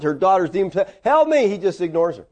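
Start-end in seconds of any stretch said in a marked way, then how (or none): 1.0-1.5 imitated high-pitched cry for help; brief mock cry of distress. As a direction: plead out like a desperate woman, mildly. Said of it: "She's crying out".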